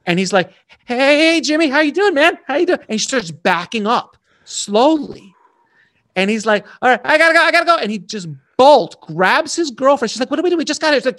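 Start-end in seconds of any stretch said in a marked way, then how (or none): 0.8-2.8 much higher, louder, nervous forced cheer; terrified director greeting the gangster, high and panicky; panicked high greeting. Retold or imitated. 6.8-7.8 much higher and louder, frantic; scared director bolting from the gangster, high panic; panicked rush. Retold or imitated. Terrified director fleeing. 10.3-10.9 mock girlfriend. Girlfriend confused by exit.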